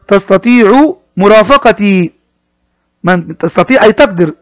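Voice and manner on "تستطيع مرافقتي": slow model reading. Shown as a demonstration. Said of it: "teacher repeats phrase for pupils".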